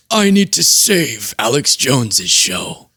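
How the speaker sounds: slow, ponderous deity voice; mock-divine, drawn-out delivery; God impression. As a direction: intone it slowly as the Almighty. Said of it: "That's God".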